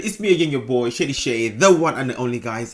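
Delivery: lightly put-on posh British host; British accent. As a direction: play a cheesy British vlogger. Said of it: "Beautiful British English".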